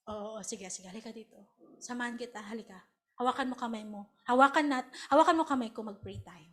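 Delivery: gently calm her down; soothing mother. Retold or imitated. Mother soothing the upset disciple, soft and calming.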